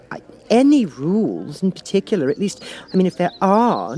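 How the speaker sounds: put-on high girlish voice, a touch of complaint; a young girl airing her grievances; complaining Alice. Alice complains to the Cat about the game, girlish. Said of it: "in a rather complaining tone".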